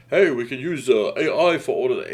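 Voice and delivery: lightly voiced boss pitching an idea; a hint of an over-keen boss; mock eager boss. Imitating an eager company boss.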